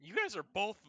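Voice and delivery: loud, high-pitched taunt; mocking jeer. Real, not acted. Game master teasing players over bad strength rolls, loud mocking jeer. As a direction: jeer it loudly, drawing out the insult.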